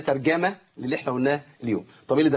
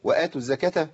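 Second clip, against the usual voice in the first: rushed madd. Shown as a demonstration. Teacher mimicking those who rush the badal, وآتوا hurried. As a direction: hurry over the long aa of وآتوا. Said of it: "في ناس بتجري على البدل".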